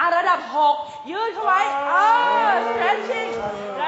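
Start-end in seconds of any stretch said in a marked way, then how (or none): 2.5-3.3 high strained cry; straining cry. Shown as a demonstration. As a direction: push to break free. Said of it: "พยายามยืด พยายามหลุดพ้น". (เสียงเค้นสูง)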